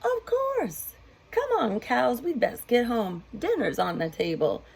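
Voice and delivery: high, friendly farmer calling cows home. Acted. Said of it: "And farmer said".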